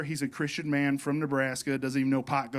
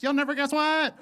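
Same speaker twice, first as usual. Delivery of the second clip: high, put-on excited dog; squeaky-high mock dog talk; 13 semitones higher, 4 dB louder than usual. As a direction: voice an overexcited pet. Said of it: "talk to my dog and for my dog".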